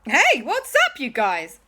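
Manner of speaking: big, high, breezy hologram greeting; loud, cheery hero's hello; Doctor Who. Acted. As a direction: hail the gang loudly, starting high. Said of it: "Doctor Who said in a hologram".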